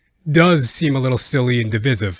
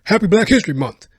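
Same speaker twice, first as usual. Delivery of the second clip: lightly voiced friendly hustler, louder; a hint of a pamphlet seller; 6 semitones higher, 6 dB louder than usual. A pamphlet seller greeting him, mildly voiced. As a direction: pitch it like a chummy street seller. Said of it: "It's like".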